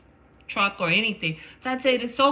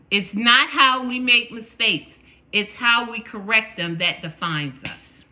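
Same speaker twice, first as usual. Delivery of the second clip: repeated louder, for the back row; 4 dB louder than usual. Shown as a demonstration. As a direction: project it to the back. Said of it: "one more time, for those in the back ... listen".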